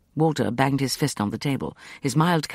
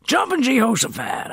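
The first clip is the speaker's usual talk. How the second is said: American exclamation; 11 semitones higher than usual. A narrator's reading. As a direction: burst out in surprise. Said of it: "multi-syllabled American exclamation".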